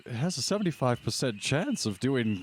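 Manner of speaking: gentleman defending his weapon, lilting; genteel husband character. Acted. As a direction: protest politely in the old-fashioned gentleman's voice.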